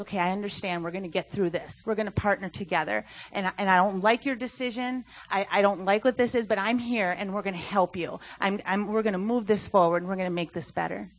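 understated, supportive promise to help; calm reassurance. Acted. Parent to teen who messed up, calmly reassuring. Parent voiced after child's mess-up.

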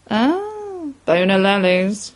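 lightly voiced old gent, a rising "Ah"; a hint of a camp old Londoner gossiping; dapper elderly gent. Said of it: "replied the other".

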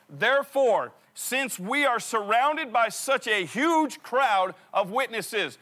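slow, deliberate scripture reading, word by word; read real slow. Shown as a demonstration. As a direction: lean on every word of the verse. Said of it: "Let's read that real slow".

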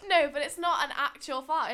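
laughing protest. Real, not acted.

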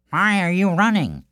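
puzzled question; curious villager. Acted. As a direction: call to the runner. Second group questions him.

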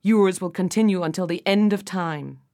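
stern booming doom; furious king cursing the witch. Acted. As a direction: pronounce the curse with force.

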